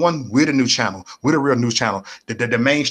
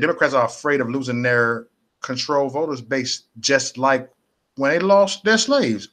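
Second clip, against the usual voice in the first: reading the rapper's words off the screen, measured; quoting a comment aloud; reading out a quote. Retold or imitated. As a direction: read it out, slowing at the end. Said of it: "The rapper, he said".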